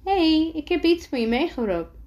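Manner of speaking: bright greeting, pitched well up; cheerful. A narrator's reading. Elle presenting a gift to Timo, cheerful. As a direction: greet with high, happy energy. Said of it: "lacht Elle".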